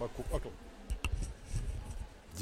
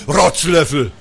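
angry shout; 2 semitones lower, 5 dB louder than usual. Acted. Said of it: "rief noch".

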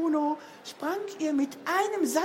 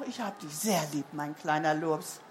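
tender goodnight; 10 semitones lower, 3 dB quieter than usual. A narrator's reading. Mama's goodnight to tired child.

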